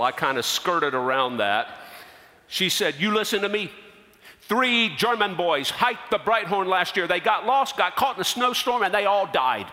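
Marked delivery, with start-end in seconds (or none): 3.0-9.7 firm retold warning, pitch climbing; mildly acted stern insistence; emphatic warning. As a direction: warn them insistently, in the clerk's words. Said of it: "my desk clerk was so emphatic".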